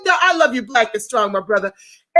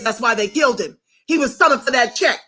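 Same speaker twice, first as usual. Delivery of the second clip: ordinary talk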